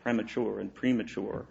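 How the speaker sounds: premature said two ways, short e then long ee; two pronunciations. Shown as a demonstration. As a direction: say premature with "prem", then with "preem". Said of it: "I can say, like".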